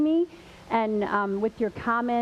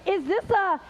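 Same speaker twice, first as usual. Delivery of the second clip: high, questioning teacher voice; puzzled teacher guess; 6 semitones higher than usual. Retold or imitated. Teacher guessing what is in the box, puzzled. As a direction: guess aloud, pitched up and tentative.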